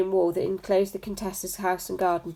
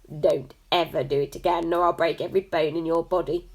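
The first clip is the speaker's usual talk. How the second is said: menacing threat. Acted. Big brother threatening.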